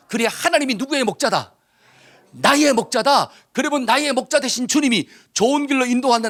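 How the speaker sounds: emphatic, driving scripture declaration; rally the congregation with rising insistence; preaching at full force. Acted. Preacher declaring God's help to the congregation, forceful and ringing.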